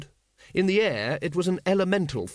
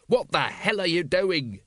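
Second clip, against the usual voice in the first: loud whisper; 5 semitones higher than usual. Acted. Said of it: "he whispered loudly".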